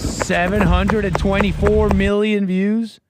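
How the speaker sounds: high, loud, drawn-out astonishment; real disbelief. Real, not acted. Commentator seeing a huge view count, loud disbelief. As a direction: read the number slowly, incredulous and questioning.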